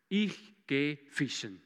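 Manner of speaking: low, slow, mildly dejected quote; deep disappointment. Retold or imitated. Peter tells his friends his plan, mildly dejected. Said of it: "tiefen Enttäuschung raus sagt".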